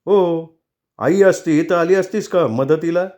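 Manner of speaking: glare and throw it at her; husband taunting his wife angrily; angry taunt. Acted. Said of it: "रागानं बघत डोळे ताणून बोलत होता".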